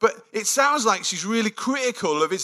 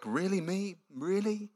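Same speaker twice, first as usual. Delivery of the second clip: disbelieving; 8 dB quieter than usual. Retold or imitated. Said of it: "Mary is looking around for somebody else".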